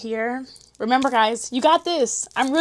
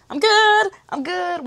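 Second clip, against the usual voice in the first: squeaky reassurance; 6 semitones higher, slower than usual. Real, not acted. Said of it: "I'm good, y'all".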